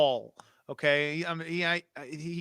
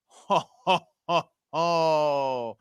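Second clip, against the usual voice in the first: mock laugh; 5 dB louder, much slower than usual. Hammy laugh.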